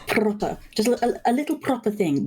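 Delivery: light, high, gentle posh voice; a touch of a refined old lady; posh lilt. Retold or imitated. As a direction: lift into a dainty proper lilt. Imitating posh great-grandmother.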